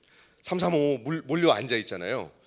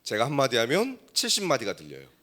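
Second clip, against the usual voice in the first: normal talking voice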